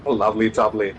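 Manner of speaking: put-on lightly done English accent, Cockney flavour; a hint of an English Cockney accent. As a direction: play at sounding English on the catchphrase. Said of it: "changing to a English accent".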